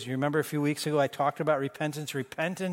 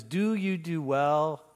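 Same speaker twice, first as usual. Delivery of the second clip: God's gentle question; 3 semitones lower than usual. Acted. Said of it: "He says".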